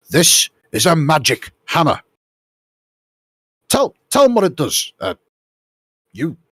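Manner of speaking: high, loud impatient order; commanding. Acted. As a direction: push the helper to speak up. Isengard orders the man again.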